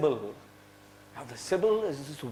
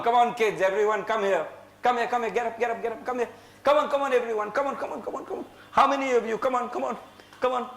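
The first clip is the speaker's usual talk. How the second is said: eager summoning; 5 semitones higher, much faster than usual. Real, not acted. Storyteller summons children up.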